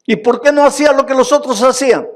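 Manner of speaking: fast, high and loud, pressing the crowd; demanding question. Acted. Preacher challenges the congregation, fast loud demanding. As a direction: fire the question at them.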